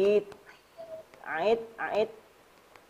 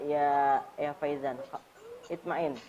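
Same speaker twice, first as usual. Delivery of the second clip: soft reassurance; 5 semitones lower, 6 dB quieter than usual. Real, not acted. Reassuring pupil who was crying.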